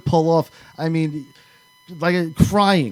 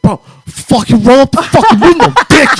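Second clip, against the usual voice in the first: high, loud imitation of a fed-up friend; exasperated shouting, hammed up for the story; retold furious yell; 11 semitones higher, 13 dB louder than usual. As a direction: yell it in mock desperation. Retold freezing friend yelling.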